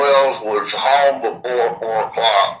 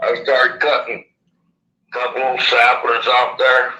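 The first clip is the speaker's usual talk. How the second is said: slushy lisp from missing teeth; lisping through a gap in the teeth. Real, not acted. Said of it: "Excuse my lisp".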